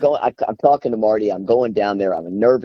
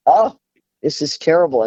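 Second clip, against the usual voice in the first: dismayed inner cry; 6 semitones higher than usual. Retold or imitated. Crying at every workshop, she exclaims to herself in dismay.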